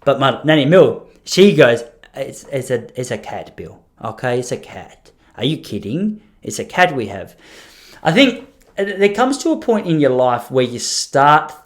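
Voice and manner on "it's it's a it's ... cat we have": patient grandmother. Retold or imitated. Grandmother wearily explains to husband.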